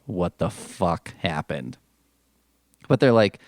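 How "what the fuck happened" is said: low, slow and softer stunned producer. Retold or imitated. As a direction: drag it out like he can't believe it. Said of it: "this film producer is like".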